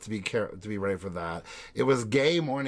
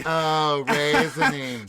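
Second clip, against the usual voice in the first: slow, louder drawn-out raisiny; louder mock raisiny; 3 semitones higher, 5 dB louder, slower than usual. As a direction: echo the clip, drawn out. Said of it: "after the clip".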